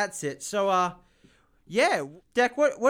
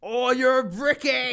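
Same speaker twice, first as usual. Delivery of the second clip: excited; 8 semitones higher, 7 dB louder than usual. Real, not acted. Excited reaction to job.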